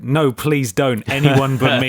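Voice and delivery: slow, hammed-up begging; mock plea to spare himself; lightly voiced father begging not to be killed; pleading dad. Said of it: "What if he said".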